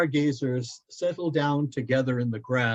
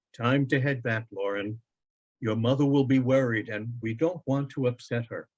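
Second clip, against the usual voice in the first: a touch of fatherly warmth; gently calling the boy home; father telling his son it's time to go, warmly. Acted. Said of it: "Loren's father says warmly".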